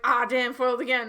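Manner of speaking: hammed-up defeat; foiled schemer. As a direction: curse your luck lightly, like a thwarted villain. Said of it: "Water being like".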